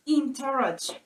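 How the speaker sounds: "interruption" with the weight on RUP; stress on the root. Shown as a demonstration. Teacher modelling stress on the word root. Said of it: "the sound will go to the root".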